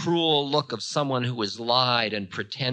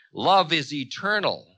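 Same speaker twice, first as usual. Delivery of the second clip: raised, unhurried, firm declaration; Ravana, assured declaration; 6 semitones higher, 6 dB louder than usual. A narrator's reading. Ravana answering Time's threats of doom, assured. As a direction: declare it as settled truth.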